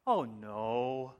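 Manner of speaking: low, drawn-out mock lament; mock-moved lyric recital. Preacher reciting a band's lyrics to congregation, mock-mournful. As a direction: intone it gravely, as weighty poetry. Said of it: "I hope you're as moved by these".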